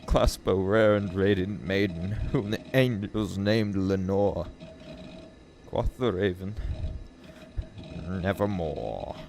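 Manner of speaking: slow, measured gothic verse; solemn poem recital. Acted. Reader voicing the raven's answer, solemn. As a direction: let the lines fall back, grave and drawn out.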